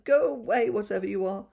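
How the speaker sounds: crying out. Acted. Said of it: "cried the lion".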